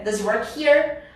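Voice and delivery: DOES HE WORK HERE run together, DOES HE as "duh-zee"; linked speech. Shown as a demonstration. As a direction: glue DOES to HE without an H. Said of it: "esse som grudado aqui que te atrapalha".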